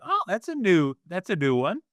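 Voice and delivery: mild surprise, unangered. Acted. Parent to a kid with a new word, mildly surprised. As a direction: react with light, acted interest and no anger. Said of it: "not getting mad and be like".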